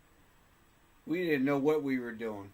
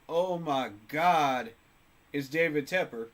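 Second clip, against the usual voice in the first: mock awe; 6 dB louder than usual. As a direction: gasp it like a starstruck fan. Mimics fans gasping at owner.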